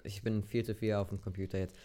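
hushed confession; whispering. Real, not acted. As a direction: whisper the admission.

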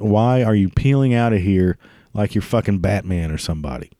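usual speaking voice

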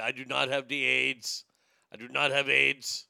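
lightly put-on Austrian accent; a hint of an Austrian action-hero impression; Arnold Schwarzenegger voice. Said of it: "put on his Arnold Schwarzenegger voice".

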